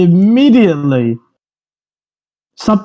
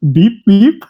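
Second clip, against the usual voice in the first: robot beeping, slightly higher; robot beeps; 4 semitones higher than usual. Shown as a demonstration. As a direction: beep like a little robot. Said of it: "The only line I had to say was this".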